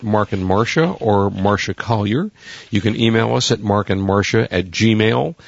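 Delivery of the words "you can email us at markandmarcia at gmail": scratchy voice. Real, not acted. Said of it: "You sound a little scratchy this morning".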